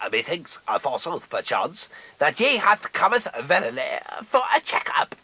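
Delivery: olde-worlde thee-and-thou talk; mock biblical prophet. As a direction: ham up archaic Restoration speech. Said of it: "in the style of a Sheridan Restoration comedy".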